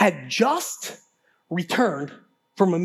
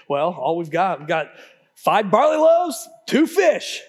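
sarcastic; 4 semitones lower, 3 dB louder than usual. Retold or imitated. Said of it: "it's almost sarcastic".

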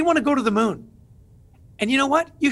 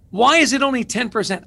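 louder, pressing rhetorical question; emphatic question; 4 semitones higher, 5 dB louder than usual. Acted. Speaker challenging the host on survey numbers, emphatic. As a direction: push the question hard at the host.

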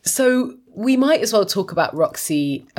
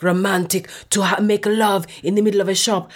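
put-on hammy Italian accent for a lovestruck come-on; mock-romantic Super Mario Italian; ridiculous Italian seducer. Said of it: "this is literally how he talks".

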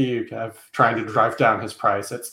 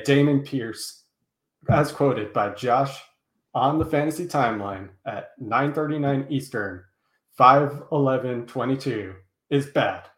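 slow, emphatic mock proclamation; mock official quote; 3 semitones higher than usual. Co-host slowly dictating a mock on-record quote from Josh. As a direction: spell it out slowly like a legal record.

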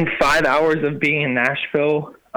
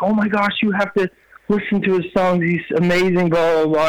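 higher-pitched retold gushing; gushing friend; 4 semitones higher than usual. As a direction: lightly imitate a friend talking you up. Voices friend gushing about him.

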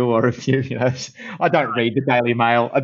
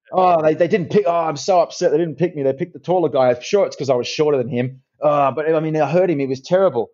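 mildly hammed-up whiny excuse-maker, a bit higher; mock whiny loser; 4 semitones higher than usual. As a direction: lightly mimic a sulking actor blaming others. Mocking an actor who makes excuses.

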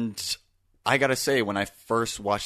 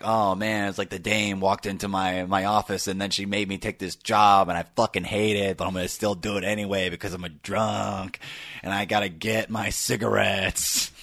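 hard-boiled gumshoe narration, lightly done; noir detective narration. Retold or imitated. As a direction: channel a weary film noir detective. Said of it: "heady, like".

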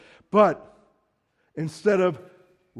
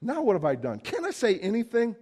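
whiny; 5 semitones higher than usual. Retold or imitated. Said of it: "sort of whiny".

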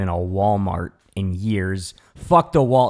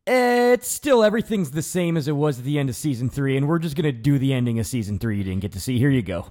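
much higher, fast, careless mock voice; dismissive mockery; 4 semitones higher, faster than usual. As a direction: toss it off like a lazy producer. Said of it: "they're just like".

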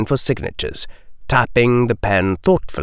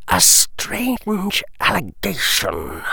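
slow, soft, higher drawl; a bored aristocrat dragging the words out; 6 semitones higher, 3 dB quieter, slower than usual. Acted. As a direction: Lucius drawling with disdain. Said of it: "Lucius drawled".

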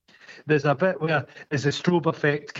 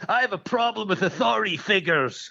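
raised-pitch mock defiance; defiant film character; 7 semitones higher than usual. Film character objects to authority figures, mock defiant. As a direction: put on the rebel's voice, pitched up.

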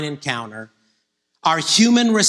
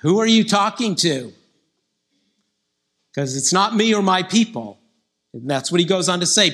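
doubting Gideon; 4 semitones higher than usual. Retold or imitated. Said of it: "And Gideon's like".

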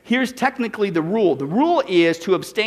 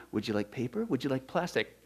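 mock cashier; 7 semitones lower, 12 dB quieter than usual. Cashier voiced in retold scene.

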